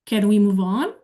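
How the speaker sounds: "Can we move on?" rising on "on"; a plain questioning rise at the close. Shown as a demonstration. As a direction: ask it with the end going up. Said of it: "let's bring it down".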